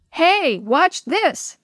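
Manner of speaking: slow, high show-off shout. Acted. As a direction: call out to show off, drawn out. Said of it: "someone shouted behind him".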